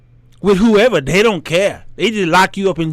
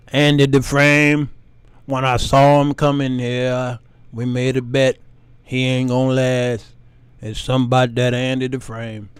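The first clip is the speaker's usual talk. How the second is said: deepen into a film narrator; lightly voiced Shawshank narrator; movie inmate voice; 7 semitones lower than usual.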